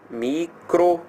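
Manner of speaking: "Micro" alone, both syllables drawn out; single out "Micro" with a stop after it; MICRO set apart. Shown as a demonstration. Teacher highlighting the prefix, "Micro" said slowly by itself. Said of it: "micro destacando aqui".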